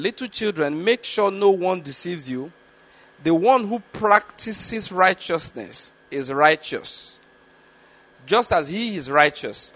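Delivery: slow, measured reading of the verse; scripture reading. Acted. Preacher reading scripture to the congregation, slow and measured. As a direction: read the Bible passage deliberately to the congregation.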